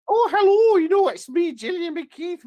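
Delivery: very high falsetto character voice; shrieked-out greeting that settles into falsetto; Gillian McKeith. Acted. Co-host introducing himself as a TV nutritionist, high falsetto. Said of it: "Gillian McKeith. Be like that".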